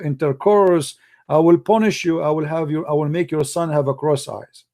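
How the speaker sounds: wag a finger and threaten like a petty god; mock angry God. God threatening a believer who skipped the prayer, mock menacing. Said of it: "He will spank you".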